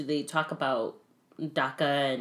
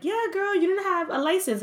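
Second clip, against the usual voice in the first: imitated friend; 14 semitones higher than usual. Acting out the friend's remark.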